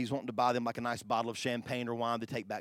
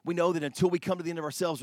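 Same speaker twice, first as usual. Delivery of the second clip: louder and faster, pressing the point home; emphatic repeat; 4 semitones higher, 5 dB louder, faster than usual. Acted. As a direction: say it again, urgent and driving. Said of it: "same quote repeated with force".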